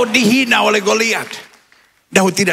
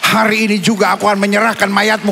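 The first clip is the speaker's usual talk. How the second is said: bold declaration; 2 semitones lower than usual. Acted. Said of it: "Dia tatap Goliat dan dia bilang".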